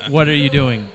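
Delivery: hammed-up panic at his dad in the car; retold frantic plea.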